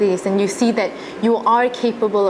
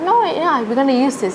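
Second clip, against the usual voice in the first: excited; 5 semitones higher than usual. Retold or imitated. Teacher voiced approving the script.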